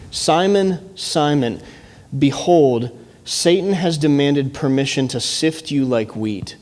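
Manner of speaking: earnest scripture reading, slowing on the last words. Acted. Pastor reading Jesus' words to Simon, earnest and measured. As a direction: read Jesus' warning with weight.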